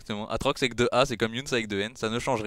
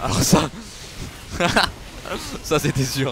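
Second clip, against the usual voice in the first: laughing; 5 semitones higher, 6 dB louder than usual. Real, not acted. Chocolatine question, laughs.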